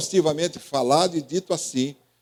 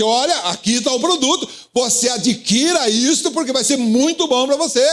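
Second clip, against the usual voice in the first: salesman pitch; 7 semitones higher than usual. Retold or imitated. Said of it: "falar assim".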